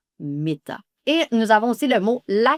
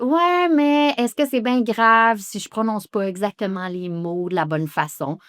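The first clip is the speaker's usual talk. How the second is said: doubtful student. Retold or imitated. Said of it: "Vous me direz peut-être".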